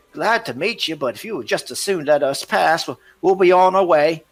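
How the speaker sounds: very high, loud nervous stalling; flustered smuggler. Acted. Smuggler stalls the ranger and elf, very high and loud. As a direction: talk fast to get away.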